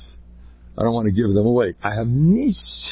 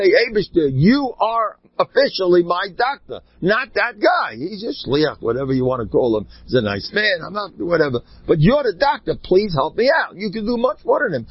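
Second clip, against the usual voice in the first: high, earnest plea to God; pleading prayer; 4 semitones higher than usual. Pretend. Preacher modelling a prayer for congregation, earnest and high. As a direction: beg sincerely, from the heart.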